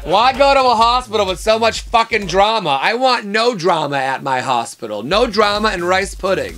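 loud, high, hammed-up outrage; mock ranting. Ranting about drama at the hospital, loud mock outrage. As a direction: belt it out like an exaggerated complaint.

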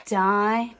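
"Dinosaur" with long pauses between di, no and saur; one sound group at a time. Shown as a demonstration. Teacher laying down crayons, "Dinosaur" in separate syllables. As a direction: isolate each syllable of "Dinosaur". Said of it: "Let's lay down our crayons".

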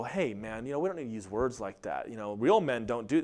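a timid peacemaker's aside; mock meek. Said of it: "Elijah didn't go".

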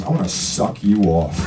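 lightly voiced Philly mechanic, low and slow. Girlfriend propositioning him before a movie, like a mild Philly mechanic. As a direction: imitate a blunt Philly mechanic, drawn out. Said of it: "That's how she said it, like a Philly mechanic".

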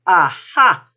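loud burst of discovery; triumphant aha. A narrator's reading. Panda spots the boobies, triumphant aha. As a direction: pounce on the discovery, loudly.

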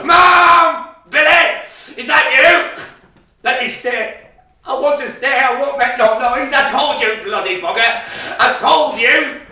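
high, loud desperate pleading. Acted. Boy pleading with his mother not to be locked away. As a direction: beg her at the top of your voice.

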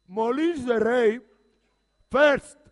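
slow shouted rally slogan. Pretend. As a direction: bellow the slogan to rally the crowd. Repeated slogan louder.

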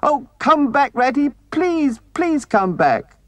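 very high, desperate little mole voice; high-pitched, distraught begging; anguished pleading. A narrator's reading. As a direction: plead frantically, stumbling over words. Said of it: "pleaded the poor mole in anguish".

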